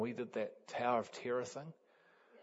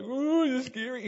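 mock scared; 12 semitones higher, 6 dB louder than usual. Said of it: "Then he's like".

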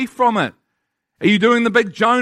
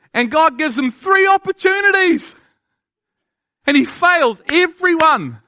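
building sermon climax; 2 semitones higher than usual. Acted. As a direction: preach it up, building toward the peak.

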